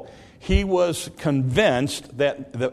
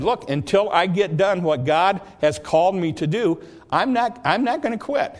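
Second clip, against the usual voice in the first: firm refusal; 5 semitones higher than usual. Acted. Nehemiah answering his enemies with a high firm no. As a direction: pitch jumps higher on I'm not.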